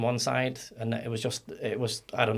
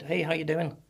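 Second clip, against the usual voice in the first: friendly local's greeting; 5 semitones higher than usual. Retold or imitated. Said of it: "People spoke".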